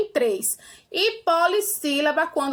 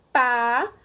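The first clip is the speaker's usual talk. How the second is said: syllable by syllable; 4 semitones lower, faster than usual. Shown as a demonstration. Teacher showing pupils how a word divides, syllable by syllable. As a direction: say "Pa-sa-ri-nho" one syllable at a time, pausing between each. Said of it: "ela se divide".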